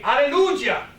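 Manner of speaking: mock-joyful exclamation of praise; joyful hallelujah. Hindu greeting the New Zealander at sea, joyful hallelujah. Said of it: "con una voz llena de gozo".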